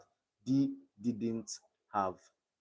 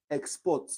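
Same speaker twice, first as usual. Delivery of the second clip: "export" as a verb, stress on PORT; stress on last syllable; 3 semitones higher than usual. Shown as a demonstration. Teacher giving a verb example, export stressed on PORT. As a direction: hit the second syllable of "export". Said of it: "verbs have the stress on the last syllable".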